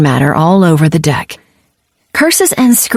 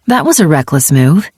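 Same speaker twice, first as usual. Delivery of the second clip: calm; 2 semitones lower than usual. Acted. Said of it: "she observed calmly".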